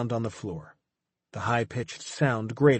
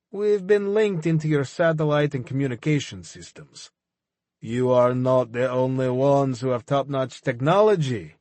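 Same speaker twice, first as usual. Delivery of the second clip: gloating villain; 2 semitones higher than usual. Acted. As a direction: rub his nose in it. Levkin boasting.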